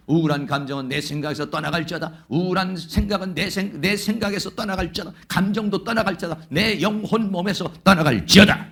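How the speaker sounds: a sermon-style command prayer growing in force; proclaiming prayer. Shown as a demonstration. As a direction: order the feelings out. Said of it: "이렇게 우리가 선포를 해야".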